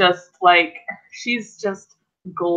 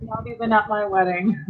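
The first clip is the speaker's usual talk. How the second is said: laughing; 3 semitones higher, 4 dB quieter, faster than usual. Acted. Kate laughing at her wedding.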